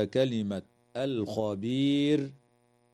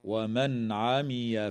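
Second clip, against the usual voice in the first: ومن عمي فعليها chanted with a full stop on فعليها; recited stop; slower than usual. Shown as a demonstration. Teacher showing the stop to students, slow chant. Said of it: "ويجوز الوقف على".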